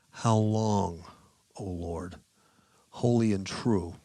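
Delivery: slow, drawn-out cry, loud on the opening words. Acted. Preacher reading the martyrs' cry to the Lord, loud crying out. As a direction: call it out in measured, weighty phrases. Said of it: "with a loud voice".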